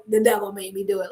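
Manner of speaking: lightly voiced excuse-maker, low and quick; mock excuse. Adam excusing himself to God, mock excuse. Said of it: "perhaps he just said".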